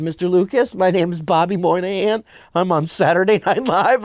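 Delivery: a hint of a small lost kid introducing himself; lost little kid. Cast member meeting Mister Lucas, like a lost child. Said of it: "like a child, like I was lost".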